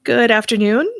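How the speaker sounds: upbeat radio show host. Acted. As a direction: welcome listeners like a radio host. Hosts radio show and ad read.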